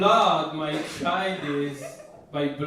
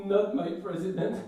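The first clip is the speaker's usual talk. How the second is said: mild, higher-pitched American whine; mock American crying; 4 semitones higher than usual. Comedian imitating his son crying in American, mild whine. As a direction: start a pretend American cry, held back. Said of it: "when he cries with an American accent".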